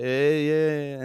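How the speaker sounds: drawn-out fake European accent; Euro trash accent. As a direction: put on a vague Euro accent. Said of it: "in my Euro trash accent".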